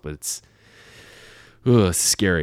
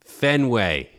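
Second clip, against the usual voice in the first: Boston accent. Shown as a demonstration. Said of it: "we need all answers in a Boston accent".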